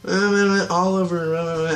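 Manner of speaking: mock Felicity. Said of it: "and she's like".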